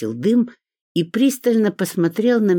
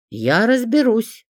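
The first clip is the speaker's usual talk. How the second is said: slow, higher and louder firm vow; firm promise; 9 semitones higher, 5 dB louder, slower than usual. A narrator's reading. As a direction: promise it firmly. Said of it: "твёрдо пообещала я". (твёрдо, медленно, с нажимом)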